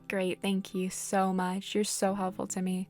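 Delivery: slow, dry fake gratitude; mock thanks to demanding villagers; sarcastic thanks. Real, not acted.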